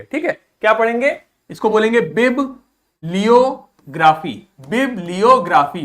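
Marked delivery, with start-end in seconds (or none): 2.0-4.5 बिब लियोग्राफी with a break after बिब; syllable-split बिब लियोग्राफी. Shown as a demonstration. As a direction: say बिब, then slowly लियोग्राफी. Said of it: "शब्दों को तोड़ तोड़ के पढ़िए".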